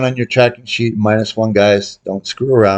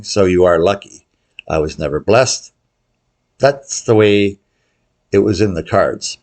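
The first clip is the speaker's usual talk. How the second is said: ordinary delivery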